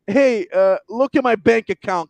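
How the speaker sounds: mock snarky brag. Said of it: "the way he said".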